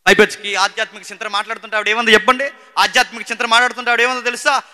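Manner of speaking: high, loud, emphatic sermon delivery; impassioned preaching. Real, not acted. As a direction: preach it at full force, driving each point. Preaches at full force.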